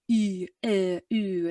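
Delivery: "E, E, U" as drawn-out isolated vowels; odd vowel sounds. Shown as a demonstration. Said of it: "weird soundboard that's like".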